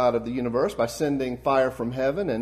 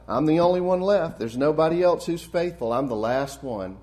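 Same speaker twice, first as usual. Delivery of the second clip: whining; 3 semitones higher, 3 dB louder than usual. Retold or imitated. Prophet Elijah complaining to God, a touch of whining. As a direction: lightly act out a self-pitying complaint. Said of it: "Elijah whining to God".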